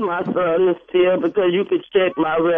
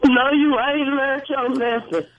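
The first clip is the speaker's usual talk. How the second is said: high-pitched upset scolding; not strong; 6 semitones higher than usual. Real, not acted. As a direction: scold your son without real force. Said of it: "that's not strong".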